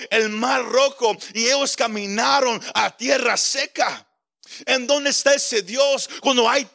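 preacher voicing a frustrated, insistent challenge; acted exasperation, building as it goes; frustrated questioning. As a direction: press each question, building in pitch. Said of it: "Él estaba frustrado".

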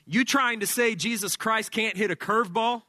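mildly indignant rising question; mock indignant. Aging pitcher challenging Serrano's remark, mock indignant. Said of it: "Harris then says indignantly".

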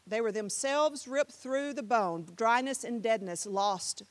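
slow, measured poem reading; spoken-word recital. Shown as a demonstration. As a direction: set each phrase down with weight. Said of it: "this is a spoken word here".

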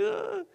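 high mock groan of distress; imitating his own bawling with a high groan; retold sob groan. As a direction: let out a high, hammed-up "Ugh.". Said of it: "I was like".

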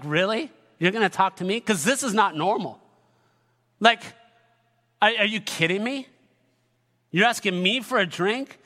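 incredulous, lightly sarcastic questioning; mild sarcasm. Acted. Samaritan woman to Jesus asking her for a drink, mildly sarcastic. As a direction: question it with a touch of disbelief. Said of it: "almost a little sarcasm".

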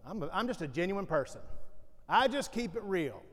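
hammed-up blunt loudmouth; loud messy person. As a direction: imitate the loud person who just keeps it real. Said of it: "loud, messy people in our lives that talk like that".

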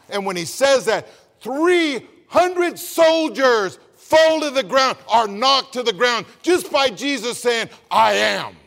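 fiery gospel preacher; full-force preaching. Acted. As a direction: preach it with rising fire.

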